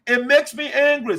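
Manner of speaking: genuinely angry, emphatic; real anger. Real, not acted.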